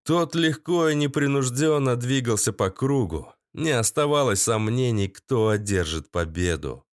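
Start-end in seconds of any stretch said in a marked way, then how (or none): none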